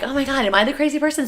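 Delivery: high, loud disbelief; incredulous. Retold or imitated. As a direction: ask it like you doubt your sanity. Retold disbelief at family.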